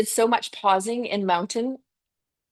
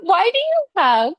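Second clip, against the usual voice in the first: puzzled question; 10 semitones higher, 4 dB louder than usual. Retold or imitated. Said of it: "I was like".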